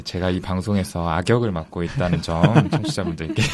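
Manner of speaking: amused, laughter breaking in; laughing. Real, not acted. Dad admitting he is the show's villain, laughing. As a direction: say it through a rueful laugh.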